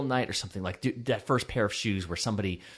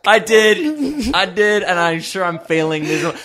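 lingering put-on voice; 10 semitones higher, 9 dB louder than usual. Real, not acted. Laughing admission, voice still put on.

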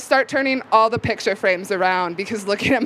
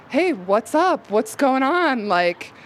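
fake cheerful innocence; 3 semitones higher than usual. Teen answering dad's call while secretly tripping, faking cheerful innocence. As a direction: sell it like nothing is wrong, a little too bright. Calls dad back, hiding acid trip.

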